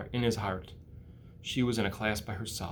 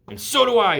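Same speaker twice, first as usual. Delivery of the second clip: much higher tiny pledge; small spider voice; 10 semitones higher, 9 dB louder than usual. Acted. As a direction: chirp it like a little spider. Nellie speaks.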